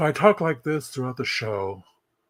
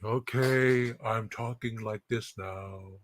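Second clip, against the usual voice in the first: mock quiet talk; 7 dB quieter, much slower than usual. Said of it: "Sammy Farr, like".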